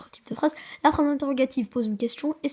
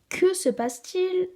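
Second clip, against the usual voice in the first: slow and much higher, a big asking tune; questioning read; 8 semitones higher, 5 dB louder, slower than usual. Shown as a demonstration. Child teacher reads the example question, high and slow. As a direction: read it like a real question to the class.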